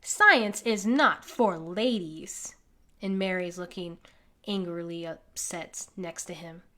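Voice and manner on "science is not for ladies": slow, lightly voiced lower snobbish man; a hint of a London gentleman dismissing Mary; snooty rich man. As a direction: lecture it down your nose. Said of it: "this man over here going".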